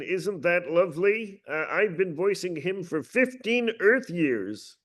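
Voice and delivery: quirky little Martian character voice; Marvin the Martian. Acted. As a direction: lift the pitch and savour each word slowly. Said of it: "of course, Marvin the Martian".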